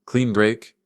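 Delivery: surprised. Acted. Stunned echo of a phrase.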